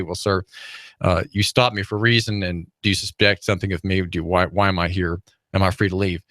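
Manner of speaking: calm the officer down without raising your voice; very calmly. Shown as a demonstration. Man stopped by a gruff officer answering very calmly. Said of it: "very calmly say".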